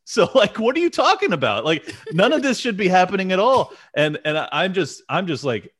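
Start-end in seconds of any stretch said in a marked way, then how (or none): 0.1-3.7 high, laughing outraged retort; mock rant with a laugh in it; snapping back at the pundits, laughing; exasperated retort. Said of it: "I'm like".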